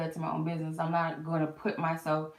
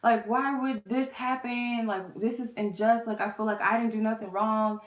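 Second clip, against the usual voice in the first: high, upset crying rant; wailing at the unfairness, half acted; retold crying; 5 semitones higher than usual. To her sister on the phone, a raised upset crying rant. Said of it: "I called my sister crying".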